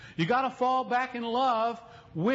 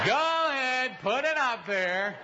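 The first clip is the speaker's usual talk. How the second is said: laughing; slower than usual. Real, not acted. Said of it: "laughing at slide operator".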